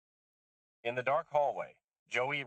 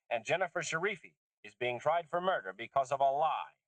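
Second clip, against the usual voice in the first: lightly voiced older woman, higher and insistent; agitated older woman; 6 semitones higher than usual. Susan exposing Walcott's lie to Lisha, insistent. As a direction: hammer each point home.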